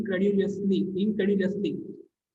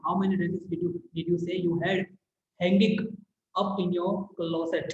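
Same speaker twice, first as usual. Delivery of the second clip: stylish teasing; much slower than usual. Shown as a demonstration. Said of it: "देखा कैसे पूछा?".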